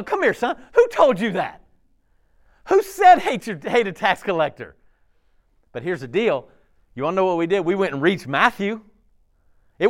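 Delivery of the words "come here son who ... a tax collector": Jesus questioning. Pretend. Jesus gently questioning a hater.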